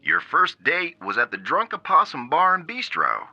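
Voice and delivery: upbeat game show host; lightly voiced cheery TV announcer. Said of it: "the announcer voice came back".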